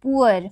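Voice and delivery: poor with a long stretched oo; long oo sound. Shown as a demonstration. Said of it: "P double O R". (poor में ऊ को लंबा खींचें)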